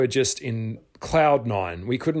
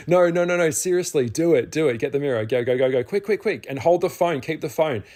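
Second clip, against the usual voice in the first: high, loud and rushed pleading; urgent excitement; 5 semitones higher, 4 dB louder than usual. Retold or imitated. On the phone, urging his half-asleep friend to look: excited pleading. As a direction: hurry her to the mirror, you can barely hold it in.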